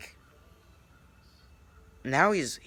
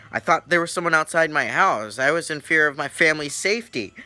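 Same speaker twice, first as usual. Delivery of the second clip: raised, loud self-defence; retold indignant protest; 6 semitones higher, 7 dB louder than usual. Pranked teller justifying calling the cops, indignant. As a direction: protest loudly and higher, justifying yourself.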